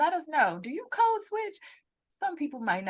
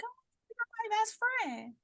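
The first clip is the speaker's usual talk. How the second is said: put-on drunk coworker gushing; 9 semitones higher than usual. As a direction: gush like a tipsy coworker. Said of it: "they're like".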